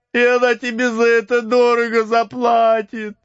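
very high, slow, weeping plea; tearful pleading. Acted. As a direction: cry out in terror. Max pleading in tears.

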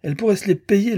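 put-on girl boasting about her film-star mother, hissed; piping little girl. A narrator's reading. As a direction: hiss it like a piercing little girl. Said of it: "petite voix en vrille".

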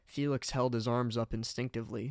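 ordinary delivery

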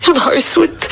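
choked, tearful panic; crying as panic takes hold; frightened sobbing. Acted. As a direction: sob it out in terror. Panic after a killing.

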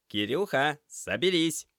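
громко и высоко, подбадривая друга; встряхни приятеля звонким окриком; бодрый оклик. Acted. (Семён громко тормошит уставшего друга)

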